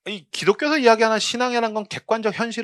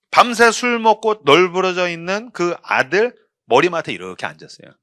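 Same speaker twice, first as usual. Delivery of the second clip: normal talking voice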